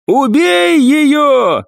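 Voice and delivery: high, drawn-out screaming order; furious yell. Acted. Maimed assassin orders partner to kill her, furious yell. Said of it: "заорал инвалид".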